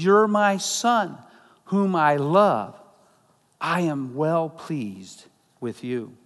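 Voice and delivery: slow, tender, measured words of a father; tender divine voice. Acted. Pastor voicing the Father to Jesus, slow and tender. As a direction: speak it slowly like a loving blessing.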